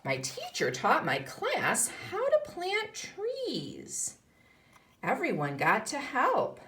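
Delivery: put-on lively read-aloud for young pupils; story reading. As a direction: read it like a picture book to a class. Continues reading the book.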